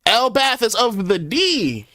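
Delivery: high, loud, slow proclamation; shouted. Acted. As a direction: bellow the line out like a battle cry. Repeats the line, dramatically.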